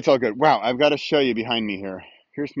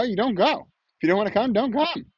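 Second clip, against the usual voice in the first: breezy high lilt; 9 semitones higher than usual. Real, not acted. Stressing free choice.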